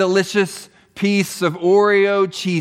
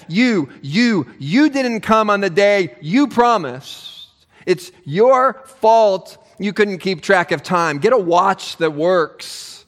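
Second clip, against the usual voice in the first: mock accusing Saul, slow and pointed; emphatic "you"; slower than usual. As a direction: hit "You, you, you" hard and accusing. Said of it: "you" there is emphatic".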